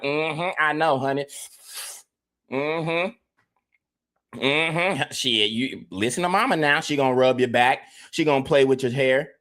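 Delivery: gentle mama rubbing her son's back; soothing mama. Retold or imitated. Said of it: "She gonna be like".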